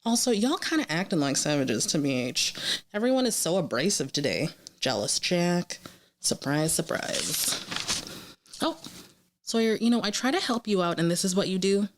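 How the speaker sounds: lightly performed running commentary; animated reading of jotted reactions; reading stream of consciousness. Real, not acted. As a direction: read out your snarky viewer notes, addressing each character. Reads her stream of consciousness.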